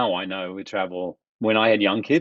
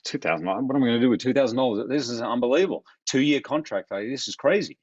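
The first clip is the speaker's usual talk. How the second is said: disbelieving; 3 semitones higher than usual. Retold or imitated. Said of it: "I'm like".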